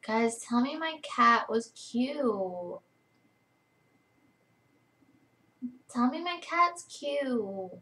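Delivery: high, drawn-out cooing over a pet; gushing. Real, not acted. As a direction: coo slowly, stretching every vowel. Gushing over her cat.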